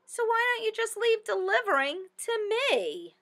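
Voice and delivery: a rabbit sceptically talking her down; bunny doubting. Acted. Bunny answers the chicken.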